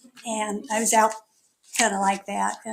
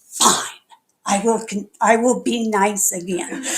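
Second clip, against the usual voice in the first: mock grudging surrender; 5 dB louder than usual. Real, not acted. Gives in to the spirit.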